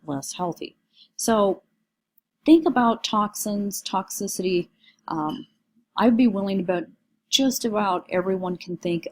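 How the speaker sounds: squeaky, strained voice from a cold. Real, not acted. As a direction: talk through a cold with a squeaky voice. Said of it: "I'm sorry about the squeaky voice".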